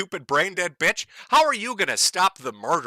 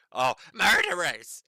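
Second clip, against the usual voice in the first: a fake tearful wail rising higher; mock crying wail; 6 semitones higher than usual. Commentator mocking the protester's cry, fake tearful wail. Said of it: "He sounds like Harvey Milk".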